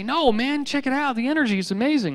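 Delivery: high, eager stoner-like gush; excited partier. Retold or imitated. Partiers brushing off the angry farmers, giddy and high-pitched. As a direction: sell the amazing energy, way up high.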